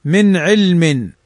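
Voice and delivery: من علم very slow, nun clearly sounded before the ain; slow clear reading. Shown as a demonstration. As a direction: stretch out من علم, every letter distinct. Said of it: "نون ساكنة بعدها عين". (قراءة بطيئة جدا لـ من علم مع إظهار النون)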